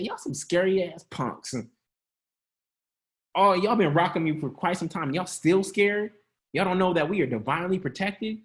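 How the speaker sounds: firm, blunt rebuke; from the chest. Shown as a demonstration. Jesus rebuking scared disciples from his chest. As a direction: speak from the chest, no poetry. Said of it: "say it from his chest".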